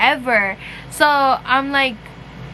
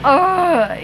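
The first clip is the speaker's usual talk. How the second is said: disgusted ugh; 3 semitones higher, 3 dB louder than usual. Retold or imitated. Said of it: "fucking icked out".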